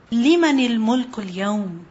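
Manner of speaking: quick, fluent Arabic recitation; Quran recitation. Acted. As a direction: recite the verse in one flowing breath.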